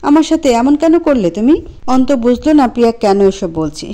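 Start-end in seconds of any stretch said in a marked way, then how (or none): 0.0-1.6 furious. Acted. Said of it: "ক্ষিপ্ত হয়ে বলল".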